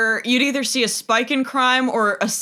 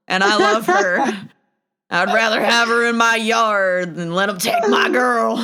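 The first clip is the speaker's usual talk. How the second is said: put-on Australian accent. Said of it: "my Australian accent is a fucking Western movie".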